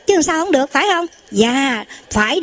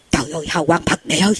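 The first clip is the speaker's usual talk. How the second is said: awed exclamation; 7 semitones lower than usual. Retold or imitated. Astonished monk describes halo.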